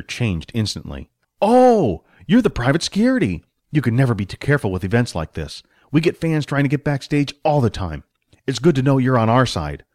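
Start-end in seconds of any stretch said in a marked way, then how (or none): 1.4-9.8 lightly voiced stage manager, welcoming a guard; friendly stage manager. Manager turns friendly to Billy.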